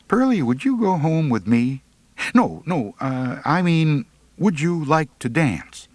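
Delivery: high, stumbling correction; flustered blurt. A narrator's reading. Boy blurting to Pearlie then backpedalling, high and flustered.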